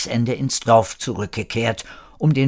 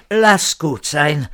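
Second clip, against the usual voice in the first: slow, higher appeasing words; soothing; 4 semitones higher, 4 dB louder, slower than usual. A narrator's reading. Janusz appeasing an angry companion, soothing. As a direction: talk her down, drawn out. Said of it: "beschwichtigte Janusz".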